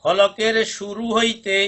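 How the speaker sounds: very slow, drawn-out teacher recitation. Shown as a demonstration. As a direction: stretch each word out for the class to echo. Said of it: "পড়ুন।".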